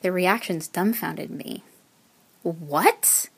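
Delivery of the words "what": rising, incredulous "What?"; shocked exclamation. A narrator's reading. Friends hearing she is leaving for good, dumbfounded question. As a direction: exclaim it in disbelief. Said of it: "they exclaimed".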